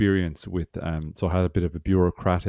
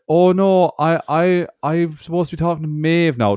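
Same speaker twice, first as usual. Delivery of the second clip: high flustered clerk; 10 semitones higher, 5 dB louder than usual. Retold or imitated.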